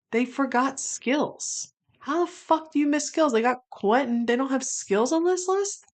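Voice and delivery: high, incredulous outrage at the list; can't believe he's missing; disbelief. Real, not acted. Fan finds a character missing.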